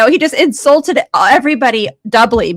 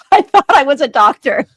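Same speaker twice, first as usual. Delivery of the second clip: mocking quote; 3 semitones higher, 6 dB louder than usual. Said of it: "he comes out with".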